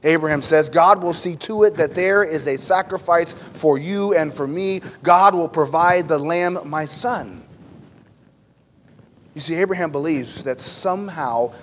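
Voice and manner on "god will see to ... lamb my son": firm declaration. Acted. Abraham's firm declaration of faith.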